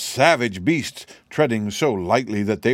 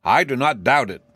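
proud; 4 semitones higher, 4 dB louder than usual. Acted. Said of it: "with a tone of pride".

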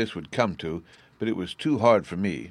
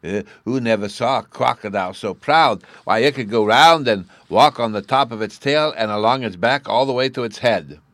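put-on louder, higher boastful child voice; proud little boy; 5 semitones higher, 10 dB louder than usual. A narrator's reading.

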